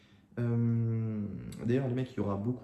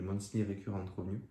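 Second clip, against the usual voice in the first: English words in a heavy French accent; mauvais accent anglais. Real, not acted. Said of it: "excusez-moi pour cet accent anglais de, de fou". (anglais avec un fort accent français)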